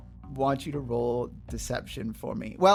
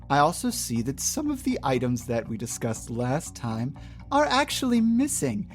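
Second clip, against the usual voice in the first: overly polite shop clerk voice; fake-sweet service with a smile; customer service voice; 2 semitones higher than usual. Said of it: "let me put on my customer service voice".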